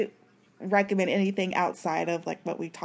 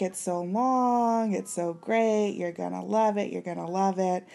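drowsy, half-asleep voice; sleepy, drifting delivery; nodding off. Real, not acted. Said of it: "I'm, like, half asleep today".

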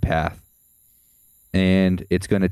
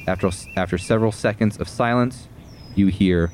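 dramatic narration, building then hushed; game master narration; 3 dB louder than usual. A narrator's reading. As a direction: describe the crash, then let it settle. GM narrates the landing.

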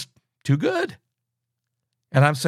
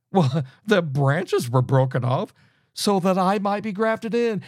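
mocking quote; 2 semitones higher than usual. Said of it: "Paul says in verse nineteen".

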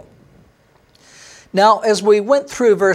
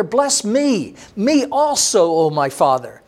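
higher, a mild mock plea that drops on the last words; bitter pleading cry; 3 semitones higher than usual. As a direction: beg your father lightly, then let it fall. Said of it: "he cried out with an exceedingly great and bitter cry".

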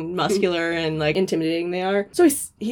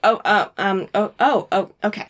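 between kisses; 2 semitones higher, 3 dB louder, faster than usual. Acted. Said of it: "in between kisses, he's like".

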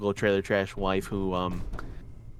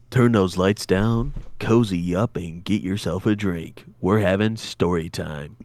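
cozy podcaster voice; 5 semitones lower than usual. Retold or imitated. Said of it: "be like every other podcaster".

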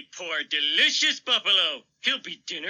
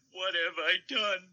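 quiet broken sob; sobbing; 4 semitones lower, 5 dB quieter than usual. Acted. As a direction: sob it softly in despair. Despair over wiped-out buffalo.

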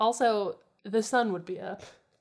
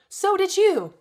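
high, loud comeback; indignant, pitched-up outburst; defensive retort; 12 semitones higher, 9 dB louder, slower than usual. A narrator's reading. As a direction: throw it straight back at him. Daphne retorts to Fred in story.

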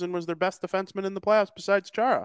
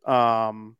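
crackly usb mic. Real, not acted. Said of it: "Now your mic is crackling a little bit".

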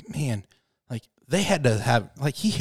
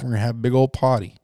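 put-on Boston accent; faster than usual. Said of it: "You said it in a Boston accent".

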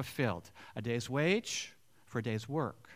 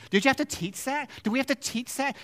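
emphatic question; 11 semitones higher, 4 dB louder, faster than usual. Real, not acted. Rhetorical questions to congregation.

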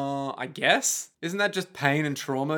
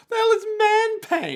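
high, loud disbelieving question; incredulous; 3 dB louder than usual. Real, not acted. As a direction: say it like you can't believe it. Baffled by unfamiliar term.

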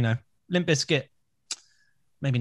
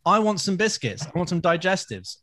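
imitating cohost craving; 5 semitones higher than usual. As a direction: whine it like a greedy kid. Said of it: "he's subconsciously gone".

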